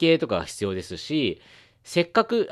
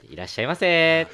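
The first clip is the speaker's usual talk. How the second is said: shop clerk greeting; 4 semitones higher than usual. Shown as a demonstration. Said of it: "いろんなね、トーンから".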